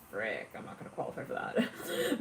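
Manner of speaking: breathy whisper, barely voiced, to yourself; whispered aside. A loan applicant whispering her doubt to herself. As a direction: mutter the worry under your breath like a private panic. Applicant's inner worried thought.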